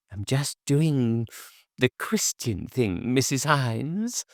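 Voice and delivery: gently pious gossip; lightly voiced old neighbour. A narrator's reading.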